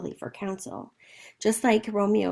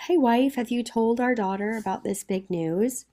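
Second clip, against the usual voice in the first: breeze in with a touch of sunny cheer. Acted. Capulet asking his wife about the news, mildly sunny. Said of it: "comes in all sunny".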